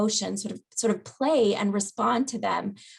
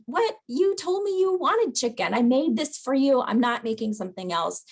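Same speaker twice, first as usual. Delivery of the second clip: much higher, indignant snap at the start; exasperated retort; 3 semitones higher than usual. Shown as a demonstration. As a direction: play the frustrated caregiver who won't budge. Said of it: "what you don't wanna do is say something like".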